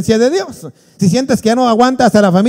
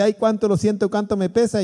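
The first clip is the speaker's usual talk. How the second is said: fake condolence; 7 dB quieter than usual. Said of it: "y puro cuento".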